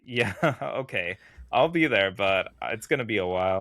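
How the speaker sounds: mock-compliant, dragging the first words; dismissive fuck-you. Podcaster voicing Wolverine stalling his caller, mildly dismissive. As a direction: act out a lazy, insolent brush-off. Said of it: "a fuck you".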